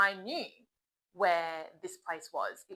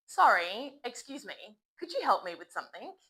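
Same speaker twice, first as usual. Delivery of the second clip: polite, apologetic request to a stranger; apologetic native request. Shown as a demonstration. Native speaker stopping a stranger, apologetic and polite. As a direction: sound sorry for interrupting. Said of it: "I would actually say something like this".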